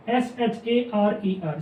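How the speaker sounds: each letter said slowly and separately; slow spelling. Shown as a demonstration. Teacher spelling a word for shorthand students, slow and deliberate. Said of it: "फिर है सेरर".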